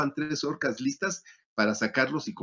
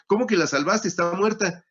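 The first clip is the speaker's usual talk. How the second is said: bewildered; 6 semitones higher than usual. Retold or imitated. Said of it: "se queda desconcertado y dice".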